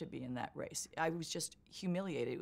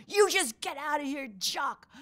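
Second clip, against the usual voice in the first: loud high yell at Jock; retold scream; 9 semitones higher, 9 dB louder than usual. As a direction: chase him off with a shout. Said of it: "Arnie screamed at him".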